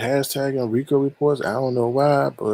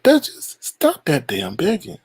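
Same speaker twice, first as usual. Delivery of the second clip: mock scolding quote; 2 semitones higher, slower than usual. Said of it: "and said".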